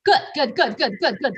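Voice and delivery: good, good, good with a laugh; laughing praise. Real, not acted. Teacher laughing as she praises a student. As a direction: chuckle through the praise.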